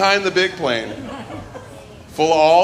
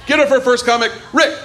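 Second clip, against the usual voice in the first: announcer shout; 7 semitones higher than usual. Real, not acted. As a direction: bring the comic on big. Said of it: "host introducing comic".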